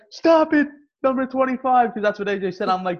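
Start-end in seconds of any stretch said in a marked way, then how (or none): 0.1-1.9 high, loud umpire reprimand; imitated umpire's order. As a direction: call out a sharp order like an ump. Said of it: "remember he was like".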